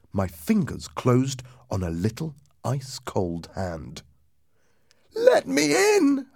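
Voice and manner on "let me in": very high, drawn-out ghostly wail; crying ghost voice. A narrator's reading. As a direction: wail it out slowly, far above your own voice. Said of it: "a voice cried".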